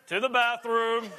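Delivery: slow parroting of the last words; lightly voiced friend repeating your words back; parrot echo. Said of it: "We call him the parrot".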